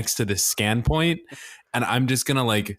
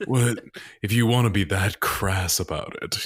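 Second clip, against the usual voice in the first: a touch of prim disdain; dry in-character retort. Acted. Lo replies primly to the GM's crass joke. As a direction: answer the GM's crude joke drily. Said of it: "Lo speaks directly to the GM and goes".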